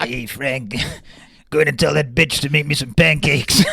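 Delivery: abusive talking dog. Retold or imitated. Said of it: "The dog's quite abusive as well".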